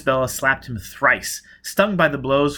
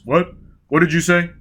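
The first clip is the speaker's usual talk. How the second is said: puzzled demand; 6 semitones higher, 7 dB louder than usual. A narrator's reading.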